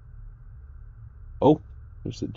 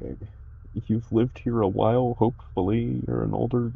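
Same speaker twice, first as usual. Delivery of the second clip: put-on polite girl voice; 5 semitones higher than usual. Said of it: "I'm like".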